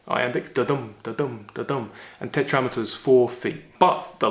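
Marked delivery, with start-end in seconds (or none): 0.1-1.9 da-dum with the weight on the dum; iambic da-dum rhythm. Shown as a demonstration. Teacher beating out the iambic rhythm for the class. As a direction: tap out da-dum like a heartbeat. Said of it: "This is iambic tetrameter".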